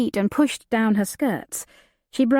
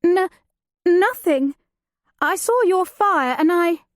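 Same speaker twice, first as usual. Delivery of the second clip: higher, louder panicked stammer; frightened stammer; 10 semitones higher, 3 dB louder than usual. Acted. Frightened woman caught by thieves.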